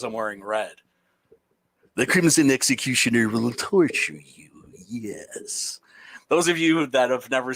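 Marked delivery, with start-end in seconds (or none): 1.9-5.8 menacing executioner threat; lightly voiced executioner; Crimson Executioner voice. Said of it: "talking like the Crimson Executioner".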